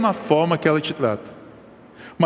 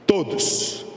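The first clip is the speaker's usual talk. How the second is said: whispered answer; 2 semitones higher, 3 dB quieter than usual. Shown as a demonstration. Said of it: "Façamos o bem a quem, gente?".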